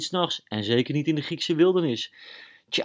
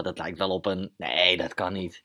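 excited guess; 6 dB louder than usual. Acted. Kostas hears engine, guesses aloud.

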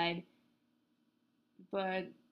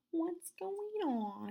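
surprised; 9 semitones higher, much slower than usual. Real, not acted. Sirens in background.

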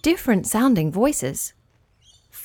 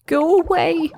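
grumbling; 7 semitones higher than usual. Acted. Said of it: "he boblopped".

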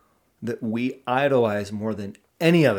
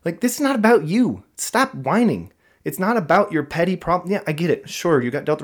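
higher and louder, in-your-face tough-love rant; gruff yelling; 5 semitones higher, 5 dB louder than usual. Retold or imitated. To ex-military addicts at Steps, a higher, louder gruff rant. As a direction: yell them awake, no sympathy. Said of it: "I kinda get a little gruff with them".

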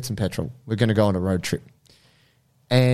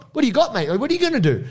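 high-pitched taunt, retold; goading; 12 semitones higher, much faster than usual. Bystander draws angry man away while backpedaling, goading. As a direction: challenge him with raised-pitch bravado.

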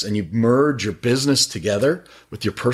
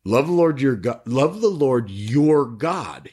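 "your" in "Love the Lord your God" pressed and drawn out slowly; stress on your; 3 semitones higher, slower than usual. Shown as a demonstration. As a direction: lean hard on "your" each time, slowly. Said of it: "stress that word and put it in bold caps".

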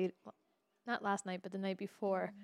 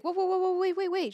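high, louder urgent whoa wait; excited stop; 9 semitones higher, 6 dB louder than usual. Retold or imitated. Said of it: "his girlfriend's like".

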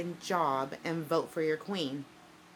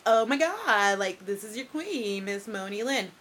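louder, valley-girl mock of her own intro; retelling how he mimicked her, louder and mocking; mocking impression of herself; 4 semitones higher, 7 dB louder than usual. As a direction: ham it up as a ditzy queen. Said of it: "He impersonated me".

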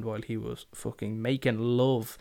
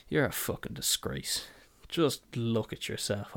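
contemptuous whisper; 4 dB quieter than usual. Pretend. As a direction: hiss the insult under your breath. Imagined contemptuous tirade at customer.

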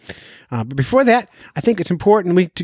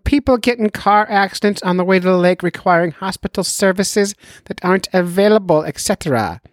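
doctor voice; 5 semitones higher than usual. Retold or imitated. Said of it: "he can't stop".

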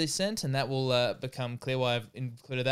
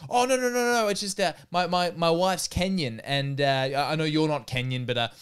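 bouncer flustered explaining to the comedian; flustered bouncer backpedalling. Retold or imitated. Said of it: "the guy has, like".

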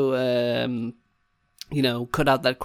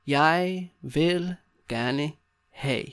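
very slow, long gaps between words; much slower than usual. Shown as a demonstration. Teacher showing learners how to order, word by word. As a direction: spell out the phrase slowly.

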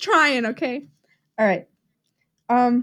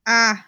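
sigh of relief; 2 semitones lower than usual. Real, not acted. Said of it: "like a sigh of relief".

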